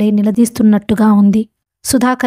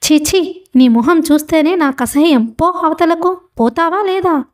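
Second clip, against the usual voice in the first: high-pitched, acted revulsion; disgusted dismissal; 6 semitones higher than usual. A narrator's reading. Old man orders Ramesh out of his sight, disgusted. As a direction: send him away in open distaste. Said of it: "కుచించుకున్న ముఖంతో అన్నాడు".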